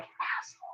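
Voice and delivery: close, very quiet, barely-there whisper. Retelling how the bird leans into the son's ear: imitating a bird whispering. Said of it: "just whisper".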